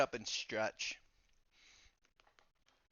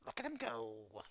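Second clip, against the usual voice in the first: sleep-mode murmur; 9 dB quieter than usual. Acted. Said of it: "Calcumon in sleep mode".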